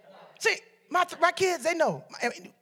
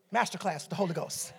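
soft, low aside; understated; 7 semitones lower, 9 dB quieter than usual. Real, not acted. Preacher muses on the Holy Ghost's master class, quietly. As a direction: let it drop quietly and low. First, understated take before emphatic repeat.

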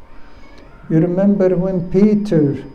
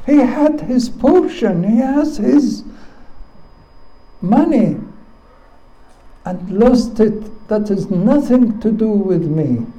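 angry elder son; 6 semitones higher than usual. Acted. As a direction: spit out his jealous refusal. Elder son's angry outburst.

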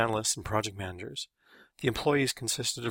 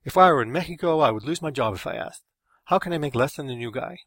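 loud, raised-voice indignation; aggrieved rant; disgusted; 4 semitones higher, 8 dB louder than usual. A narrator's reading. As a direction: open high and loud, demanding an explanation.

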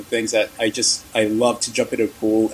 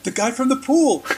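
much higher, excited surprised squeal; surprised exclamation; 12 semitones higher than usual. Retold or imitated. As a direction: voice the pastor's delighted shock at seeing him. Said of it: "she was really surprised to see me".

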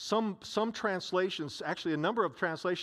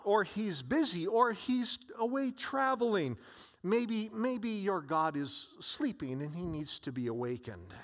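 mock sarcasm. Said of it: "Elijah began to taunt them".

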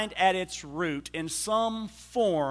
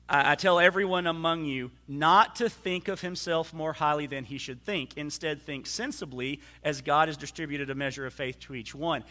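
scripture reading; 2 semitones lower, faster than usual. Acted. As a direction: read the passage straight through to the congregation. Reads the translation from the pew Bible.

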